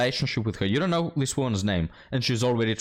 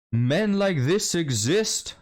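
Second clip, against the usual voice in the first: much higher, slow, drawn-out mock shock on "Men like this exist."; exaggerated sarcastic alarm; mock dramatic; 8 semitones higher, much slower than usual. Shown as a demonstration. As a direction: stretch "Men like this exist." like a scandalized gasp. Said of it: "But men like this exist".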